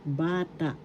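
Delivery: Bata. with a long "ba" and short "ta"; teacher carefully modelling Bata. as BAA-ta; stress on first syllable. Shown as a demonstration. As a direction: lean on the BA in Bata. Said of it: "First syllable is the accent".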